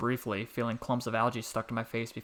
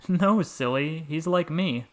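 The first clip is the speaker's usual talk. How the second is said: playful protest; 5 semitones higher, 6 dB louder, slower than usual. A narrator's reading. Boy laughing at frog.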